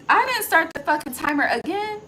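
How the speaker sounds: sudden high, loud exclamation; real frustrated surprise at yourself; startled outburst. Real, not acted. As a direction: blurt it out, caught off guard. Realizes timer was not started.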